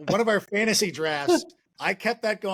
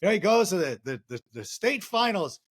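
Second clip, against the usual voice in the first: lightly voiced rambling old-timer telling a shaggy dog joke; a hint of a deadpan folksy comic dragging out the joke; Norm Macdonald impression. Doing a light Norm Macdonald voice for the hosts while telling the shaggy dog joke. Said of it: "Norm Macdonald, uh, impersonation".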